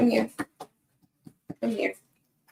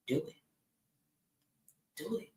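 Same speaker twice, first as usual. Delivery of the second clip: soft, faint inner voice urging; a quiet nudge from within, softer and softer; small still voice; 5 semitones lower, 14 dB quieter, faster than usual. Retold or imitated. She imitates the inner voice of her heart, softly urging. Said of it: "that small, still voice".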